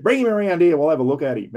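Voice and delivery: a touch of the sergeant barking an order; sergeant's voice. Retold or imitated. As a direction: sergeant summoning the prisoner, mock bark.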